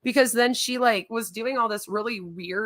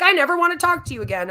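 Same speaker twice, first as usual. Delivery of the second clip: mock yell; 8 semitones higher, 5 dB louder, faster than usual. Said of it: "It's like".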